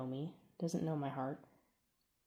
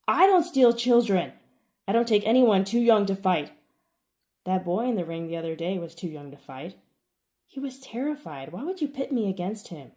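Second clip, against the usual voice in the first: furious shout; 3 semitones higher, 10 dB louder than usual. Acted. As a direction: shout back in fury. Heated shouting argument.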